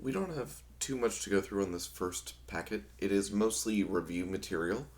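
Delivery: slightly hoarse, losing voice. Real, not acted. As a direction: talk through a worn, hoarse throat. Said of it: "I'm also losing my voice a little bit".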